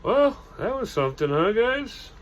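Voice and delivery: very high, voiced stand-in for a whisper; shaken whisper. A narrator's reading. Shaken Jake to his friends, high mock whisper. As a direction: lift it high, ending on a questioning rise. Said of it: "still a little shaken, whispered".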